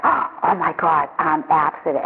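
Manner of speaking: slow, breathless amazement after a gasp; awed disbelief. Retold or imitated. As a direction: say it slowly, stunned it's real.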